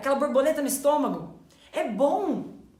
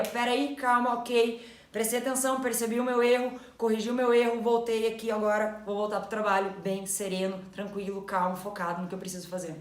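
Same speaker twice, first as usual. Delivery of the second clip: calm self-talk; 2 semitones lower than usual. Retold or imitated. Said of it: "Sendo que você poderia".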